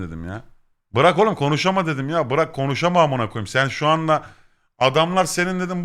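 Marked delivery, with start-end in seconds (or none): 0.9-5.6 raised-pitch, louder retold scolding; acting out telling a friend off; mock exasperation. Telling friend to stop talking, mock exasperated scolding.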